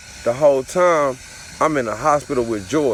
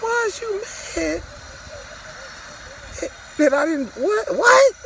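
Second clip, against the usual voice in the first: baffled indignation; 4 dB quieter than usual. Retold or imitated. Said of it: "I'm like".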